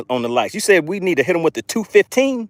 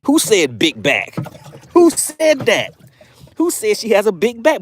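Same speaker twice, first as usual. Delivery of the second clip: put-on sassy girl voice; 4 semitones higher than usual. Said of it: "Rep says".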